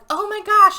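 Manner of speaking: high, loud acted gasp of dismay; mock shock. Trapped friends retold reacting, in high mock shock. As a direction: play up the group's alarm.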